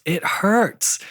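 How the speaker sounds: high-pitched mock complaint; imitated kid's whine. Kid answering his dad about the chip clip, high mock complaint. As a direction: play a hurt kid protesting, high.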